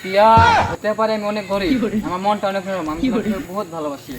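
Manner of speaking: jatra dialogue. Acted. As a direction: play it like a village jatra hero. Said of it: "এটা তো যাত্রার dialogue.".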